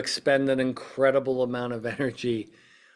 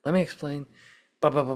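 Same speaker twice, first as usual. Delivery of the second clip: pacifying tone; 2 semitones higher than usual. Retold or imitated. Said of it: "more of a pacification".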